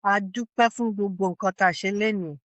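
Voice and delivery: measured, reverent closing prayer; an elder's spoken blessing; Yoruba prayer. Real, not acted. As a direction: pray aloud in Yoruba, phrase by phrase. Elder prays in Yoruba to close.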